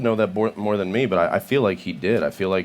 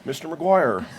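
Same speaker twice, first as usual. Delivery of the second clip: a lightly voiced Dustin Hoffman, higher; quick Hoffman line; a hint of Dustin Hoffman; Dustin Hoffman impression; 7 semitones higher, slower than usual. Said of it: "That's my D-, Dustin Hoffman impression".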